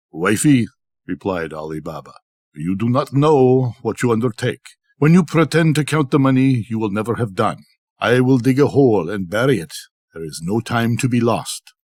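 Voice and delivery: lightly voiced Ali Baba, gently warning; a hint of a cautious husband urging secrecy; Ali Baba to wife. Ali Baba warning his wife not to count the gold, mildly urgent.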